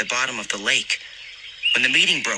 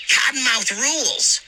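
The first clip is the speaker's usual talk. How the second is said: put-on high, slow cabin cheer from a kid; shouted cheer; 13 semitones higher, slower than usual. A narrator's reading. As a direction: belt out the cabin name. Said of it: "Kelly shouted".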